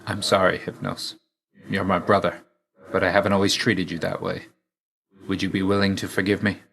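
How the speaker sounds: softening, subdued apology; sincere apology. Acted. Asking his brother Hypnos to forgive him, quiet and sincere. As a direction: apologise gently, letting the names fall away.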